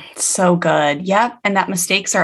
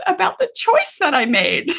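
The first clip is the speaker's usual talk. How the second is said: put-on small child's voice; 11 semitones higher than usual. Child explains his sadness.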